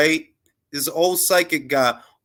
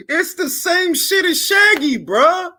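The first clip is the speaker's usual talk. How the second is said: excited exclaim. Real, not acted. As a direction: shout it out, amazed. Comparing Shaggy's fake voice.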